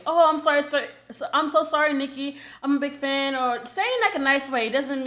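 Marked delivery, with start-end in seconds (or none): 0.0-3.4 sweet apology. Shown as a demonstration. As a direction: say it politely, meaning no harm. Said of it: "Like, in a nice way".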